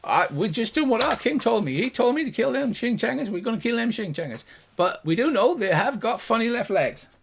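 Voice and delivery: high-pitched gnome guard; hesitant little guard, pitched well up; gnomish voice. Acted. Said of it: "the two high-pitched gnomish voices".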